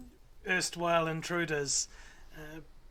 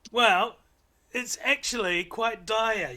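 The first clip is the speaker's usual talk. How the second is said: higher, louder little owlet chatter; 4 semitones higher, 5 dB louder than usual. Acted. Owlet explaining their ruse to the party, higher little creature voice.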